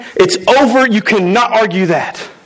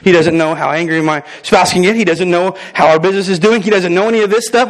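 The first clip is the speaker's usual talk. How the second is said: lower, fast, grumbling complaint from a listener; grumbling churchgoer; 4 semitones lower than usual. Retold or imitated. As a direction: rattle off the excuses lower and quicker. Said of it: "some of you are like".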